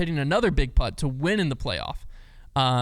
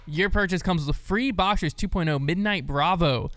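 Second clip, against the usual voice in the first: upbeat podcast sponsor read; scripted sales patter with punched key words. Acted. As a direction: pitch the product with lively emphasis. Reads the sponsor ad.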